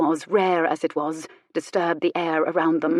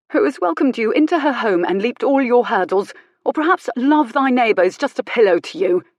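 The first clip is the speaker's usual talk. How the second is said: building indignation, growing higher and louder; acted righteous anger, building; indignant challenge; 4 semitones higher, 5 dB louder than usual. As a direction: challenge them forcefully, question upon question. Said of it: "It was his tone as much".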